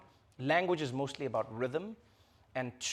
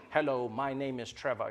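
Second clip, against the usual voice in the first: dull, buttoned-up English; stiff, boring English; 4 semitones lower than usual. Shown as a demonstration. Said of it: "English is a very stiff, sort of boring language".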